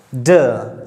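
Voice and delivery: ड said soft, tongue near the teeth; soft sound. Shown as a demonstration. Teacher repeats the English sound, soft pronunciation of ड. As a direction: soften ड into an English d. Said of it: "soft करके".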